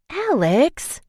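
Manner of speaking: high shocked rising cry; horrified. A narrator's reading. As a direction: gasp his name in disbelief.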